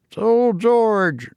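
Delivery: put-on high, slow old London loafer; old cockney man. A narrator's reading. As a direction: drawl it like an old cabman. Old Toodles speaks.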